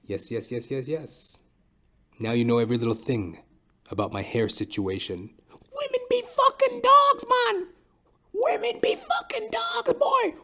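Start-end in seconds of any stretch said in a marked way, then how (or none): 5.5-10.3 squeaky high voice. Acted. High squeaky joke chant.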